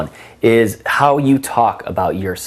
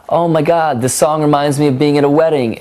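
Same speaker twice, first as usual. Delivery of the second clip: higher and louder, gushing about the song; excited gushing; 6 semitones higher, 3 dB louder than usual. Retold or imitated. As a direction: gush like the song just made your night. His excited remark about the song.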